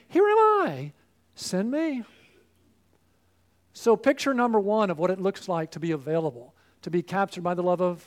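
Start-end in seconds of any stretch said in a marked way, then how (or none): 0.1-2.0 "Here am I" leaps high and bright, then settles on "send me"; glad, eager offer of yourself; eager volunteer. Retold or imitated. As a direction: sound like you can't wait to be sent. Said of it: "just like Isaiah saying".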